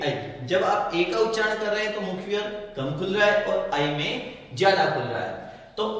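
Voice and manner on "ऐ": "आई" said as an open ɛ, mouth wider; vowel demo. Shown as a demonstration. Teacher asking students to try the wider vowel, "आई". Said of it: "फिर बोलिए आई".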